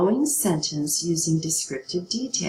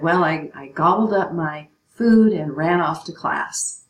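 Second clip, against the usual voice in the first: mock student voice; 5 dB louder than usual. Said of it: "So you might say in your personal narrative".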